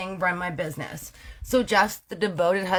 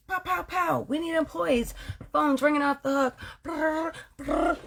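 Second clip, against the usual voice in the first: hyped up; 8 semitones higher than usual. Retold or imitated. Hyped business, phone ringing.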